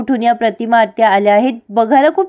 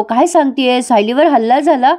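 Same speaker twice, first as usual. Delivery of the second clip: feigned shock; 3 semitones higher than usual. Retold or imitated. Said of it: "Nagraj असं दाखवतोय की त्याला काही माहितीच नाही".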